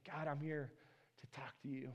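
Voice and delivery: very soft and low, near whisper; hushed prayer. Acted. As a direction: murmur it privately into God's ear. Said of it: "we whisper into his ear and we say".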